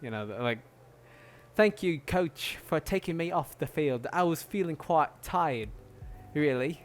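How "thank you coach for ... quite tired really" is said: polite British player. Pretend. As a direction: play a prim English footballer, a touch higher.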